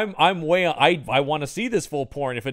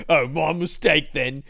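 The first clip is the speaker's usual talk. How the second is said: mock sheepish apology; 3 dB louder, slower than usual. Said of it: "the guy being like".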